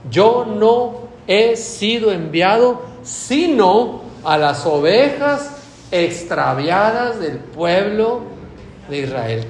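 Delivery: slow, firm, measured words; categorical answer. Retold or imitated. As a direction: hand down the answer slowly and firmly. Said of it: "categórica". (Jesús responde, lento y categórico)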